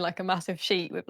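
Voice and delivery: usual speaking voice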